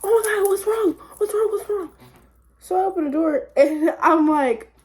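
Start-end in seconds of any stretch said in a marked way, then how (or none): 0.0-1.9 high, urgent imitation of worried friends; alarmed friends. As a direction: call out in alarm through a door. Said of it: "they all banging on the door like".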